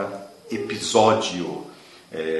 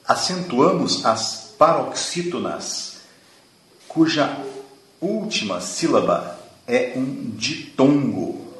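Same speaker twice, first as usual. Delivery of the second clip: higher and slower, each word laid down clearly; slow emphatic rule; 6 semitones higher, slower than usual. Real, not acted. Teacher spelling out the rule for students, slow and emphatic. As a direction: dictate the rule so students remember it.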